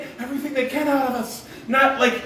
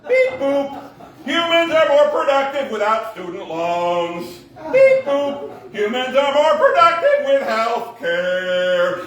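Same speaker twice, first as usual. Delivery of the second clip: robot voice. Pretend. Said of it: "They'd be all like".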